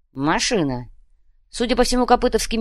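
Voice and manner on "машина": Машина. said with falling tune; Машина. falling, confirmed; confirming. Shown as a demonstration.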